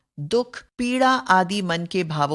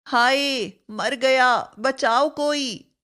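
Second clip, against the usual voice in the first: hammed-up cry of pain; a mild mock plea for rescue; crying for help; 4 semitones higher, slower than usual. Shown as a demonstration. Teacher acting a pain example, mock distress. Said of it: "शोक, पीड़ा या ग्लानि सूचक".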